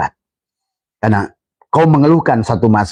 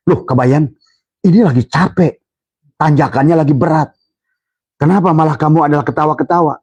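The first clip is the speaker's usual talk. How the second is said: lightly voiced father-in-law, a bit higher and puzzled; mildly raised scolding question; 4 semitones higher than usual. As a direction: scold him for laughing uphill, lightly raised.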